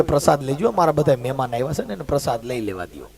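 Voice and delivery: low, fading brush-off; dismissive guru. Retold or imitated. Guru telling bhagat to wait, dropping low.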